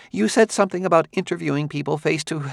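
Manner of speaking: lightly voiced older scholar; Quemot's voice. A narrator's reading.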